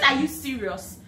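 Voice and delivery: loud, high astonished question; surprised disbelief. Retold or imitated. New hire on the phone with the director, astonished. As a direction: ask it like you can't believe your ears. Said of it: "I said".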